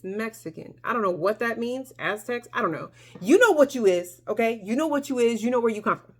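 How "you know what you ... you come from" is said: loud, insistent affirmation; emphatic. Real, not acted. Telling viewers with foreign ancestry, emphatic. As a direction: drive it home, a little louder.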